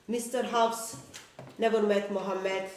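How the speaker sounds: usual speaking voice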